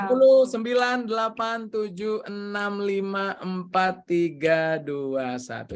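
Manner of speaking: high countdown stepping steadily down in pitch; photo countdown. Real, not acted. Host counts down for the webinar group photo, drawn-out countdown.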